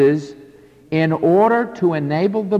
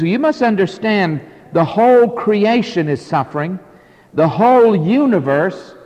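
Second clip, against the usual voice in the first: slightly raised, measured sermon delivery; preaching declaration; 4 semitones higher than usual. Acted. Preacher relaying the apostle's words on suffering creation, preaching declaration.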